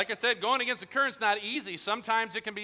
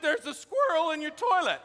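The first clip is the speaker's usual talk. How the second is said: insistent call; 10 semitones higher, 7 dB louder than usual. Retold or imitated. Repeating the news to doubting friend.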